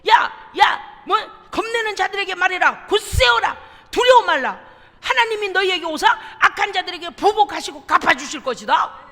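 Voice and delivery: loud, urgent proclamation; loud preaching of a scripture promise; proclaiming shout. Shown as a demonstration. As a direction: call it out like a prophet. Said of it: "이제 보십시오".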